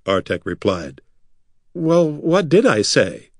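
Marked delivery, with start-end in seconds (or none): 1.7-3.3 high, slow indignant nobleman; huffy and offended. A narrator's reading. Corin demanding an answer, indignant. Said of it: "the nobleman asked indignantly".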